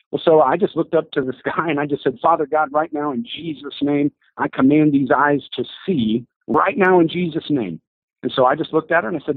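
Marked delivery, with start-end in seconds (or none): 2.2-7.8 commanding healing prayer. Retold or imitated. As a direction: call it down with preacher's fervor. Praying over blind woman.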